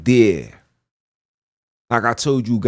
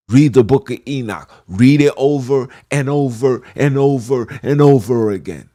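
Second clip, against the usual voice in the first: preaching shout; 2 semitones higher, 6 dB louder than usual. Real, not acted. Preacher commanding listeners.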